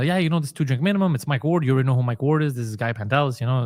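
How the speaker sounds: normal talking voice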